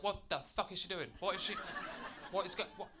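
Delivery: rising, bewildered inner panic; high, baffled and laughing; freaked-out thoughts at the till; panicked inner voice. Retold or imitated. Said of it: "And I was like".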